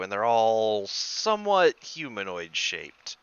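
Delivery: measured, suspenseful scene setting; game master's narration. Acted. Game master reveals shapes gliding down to Drew, suspenseful narration. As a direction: draw out the reveal with pauses.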